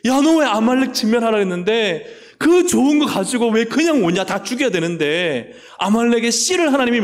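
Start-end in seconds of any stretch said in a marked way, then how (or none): 0.0-5.5 higher, louder angry rebuke; Samuel scolding. Acted. Samuel scolding King Saul, higher and louder. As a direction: chew out the disobedient king. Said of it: "이 사무엘이".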